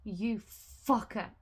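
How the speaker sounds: loud swear turning into a shrieking laugh; loud outburst. Real, not acted. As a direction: blurt it out, then burst out laughing. Reacting loudly to the news.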